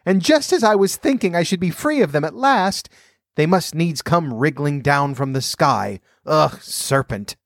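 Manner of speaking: high shrieking bird voice. A narrator's reading. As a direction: shriek it in outrage. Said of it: "raising its voice to a shriek".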